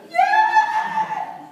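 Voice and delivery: very high, loud cheer; piercing high victory shout; excited yell. Shown as a demonstration. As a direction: throw your arms up and shout for joy. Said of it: "What's the excited posture?".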